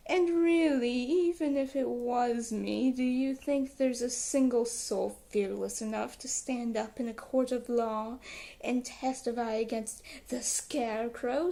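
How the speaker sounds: a hint of a menacing Scarecrow. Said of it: "Sorry for my bad Scarecrow voice".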